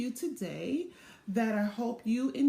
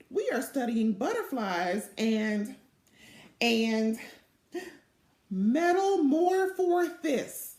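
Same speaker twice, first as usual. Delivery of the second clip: proud; 4 dB louder than usual. Acted. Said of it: "said Velma proudly".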